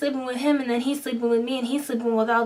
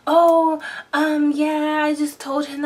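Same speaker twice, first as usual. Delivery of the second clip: drawn-out, higher "oh, um", acting out an excuse; mock hesitant answer; 4 semitones higher, 4 dB louder, slower than usual. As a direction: imitate a stalling reply, higher and louder. Boyfriend's stalling answer, acted out.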